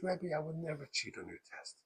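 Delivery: soft, mildly hurt plea; tearful denial. Retold or imitated. Crying pupil pleading with rebbe, mildly tearful. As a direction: plead it quietly, imitating a crying child. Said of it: "And the kid starts crying".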